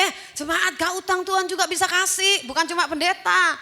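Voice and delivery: Eh, jemaat gak utang, said high and loud. Shown as a demonstration. Preacher correcting the congregation's saying, loud and high. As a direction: proclaim the right version with force. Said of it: "Kalau saya bilang gini".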